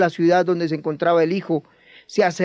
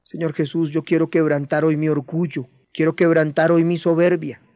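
guided prayer. Acted. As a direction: pray humbly on their behalf. Guides a men's prayer aloud. (oración guiada, humilde y sentida)

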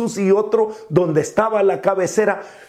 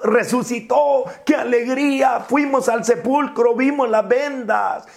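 a higher, joyful cry of the news; joyful shout; 5 semitones higher than usual. Retold or imitated. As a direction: call out the good news like the disciples. Disciples joyfully announcing the resurrection.

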